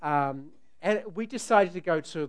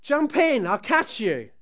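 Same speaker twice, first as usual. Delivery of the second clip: coaxing call; 9 semitones higher, 12 dB louder, slower than usual. Retold or imitated. Dad coaxing daughter to jump.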